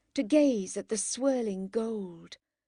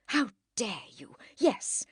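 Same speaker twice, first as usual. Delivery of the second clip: how dare you building to louder, slow; anger rising; 3 semitones higher, 3 dB louder than usual. Acted. Margaret rebuking her sister, anger growing. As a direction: let anger fill it. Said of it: "as anger filled her".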